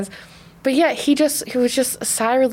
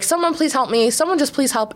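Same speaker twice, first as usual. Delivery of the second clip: pleading; 4 semitones higher than usual. Retold or imitated. Retold plea for help.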